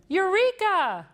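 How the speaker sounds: high loud cry of discovery; triumphant shout. A narrator's reading. Scientist bursting up through the gym floor, shouting. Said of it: "shouted Doctor Dinglebat".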